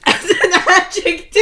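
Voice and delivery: cracking up while asking; giggling question; laughing. Real, not acted. Laughing at the slip.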